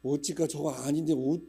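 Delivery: Chungcheong auntie. Retold or imitated. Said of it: "또 충청도 권사님은".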